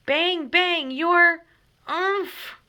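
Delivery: high, loud shot cut off by a mock groan; shoot, then get hit mid-word; loud bang bang then grunt. A narrator's reading. James shooting and getting shot, loud. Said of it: "said James".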